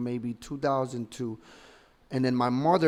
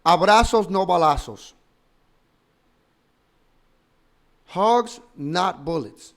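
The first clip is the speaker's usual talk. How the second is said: wild unhinged ranting; 3 semitones higher, 6 dB louder than usual. Real, not acted. Mocking president's slogan in outrage.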